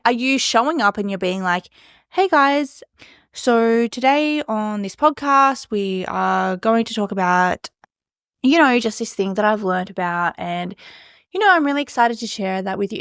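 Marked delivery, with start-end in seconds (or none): 2.1-13.0 bored script reading. Shown as a demonstration. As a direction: drag it out like you don't want to be there. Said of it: "If I was talking like that".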